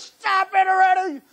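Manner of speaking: high, slow, worn-out protest; exasperated son. Retold or imitated. Son to his father at home, exasperated. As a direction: drag it out, fed up. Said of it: "and he says".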